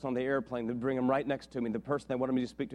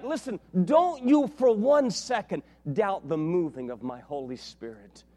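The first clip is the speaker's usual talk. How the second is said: stern God voice; 2 semitones higher, 4 dB louder, slower than usual. Retold or imitated. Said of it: "And God's like".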